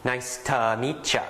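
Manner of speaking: easygoing, run together; relaxed business greeting. Shown as a demonstration. A teacher shows a natural business greeting, relaxed. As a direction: greet a new colleague casually. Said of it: "be more something like".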